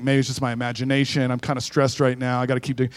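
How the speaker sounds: quiet, low self-reassurance under the breath; a hushed, nervous thief calming himself; thief talking to himself. Acted. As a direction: talk yourself down, softly.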